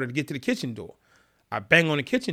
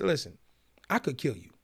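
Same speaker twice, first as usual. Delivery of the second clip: calm threat; 5 dB quieter than usual. Retold or imitated. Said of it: "'cause I talk calm".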